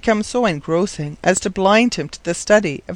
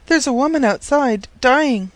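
high, urgent report, lightly breathless; acted breathless alarm, pitched high; panted; 7 semitones higher than usual. A narrator's reading. Maid reporting to the professor, lightly panted. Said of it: "she panted".

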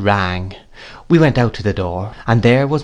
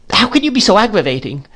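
much higher, weeping and exasperated; tearful reproach; 10 semitones higher than usual. A narrator's reading. Mother scolds Peggotty while weeping, much higher. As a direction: scold through tears. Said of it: "shedding more tears".

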